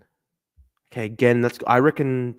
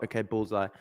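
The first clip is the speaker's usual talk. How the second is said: usual speaking voice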